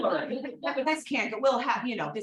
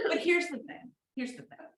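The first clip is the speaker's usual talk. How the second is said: real laugh breaking into crying; laughing through tears; 2 semitones higher than usual. Real, not acted. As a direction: fight tears while laughing.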